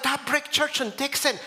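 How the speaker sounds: surprised echo question. Retold or imitated. Pastor echoes the lady's church remark, playfully surprised. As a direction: echo it back with interested surprise.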